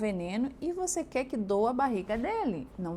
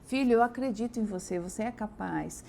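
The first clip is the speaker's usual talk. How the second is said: tender encouragement. Shown as a demonstration.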